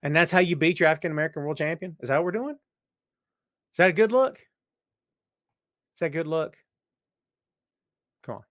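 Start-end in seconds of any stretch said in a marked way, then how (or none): 2.3-4.4 high, loud, drawn-out sarcastic question; slow sneering rhetorical question; mocking question. Real, not acted. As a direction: stretch it out slowly to mock them. Rhetorical jab at the company.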